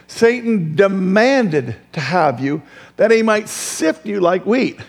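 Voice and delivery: slow, deliberate reread of the verse; preacher rereading the verse for emphasis; scripture reading. Acted. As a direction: lean on each word.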